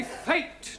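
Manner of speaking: FATE with a long ay, one syllable. Shown as a demonstration. Teacher correcting Giovanni's "fatty", long A. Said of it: "if we add an E to the end".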